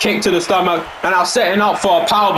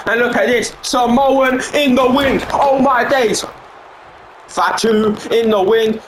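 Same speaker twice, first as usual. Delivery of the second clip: higher pitched, rising excitement; hyped commentary; 5 semitones higher than usual. Real, not acted. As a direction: call the big move like it's the moment of the night. Commentator hyped at big spot.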